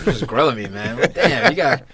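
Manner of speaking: laughing through the words. Real, not acted. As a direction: laugh while protesting. Laughing while teased by friend.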